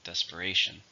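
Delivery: "Desperation" with RA stressed; stress on third syllable. Shown as a demonstration. Teacher models the noun after counting four syllables, "Desperation" stressed on the third. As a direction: demonstrate "Desperation", main weight on the third syllable, RA. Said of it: "stress is on the third".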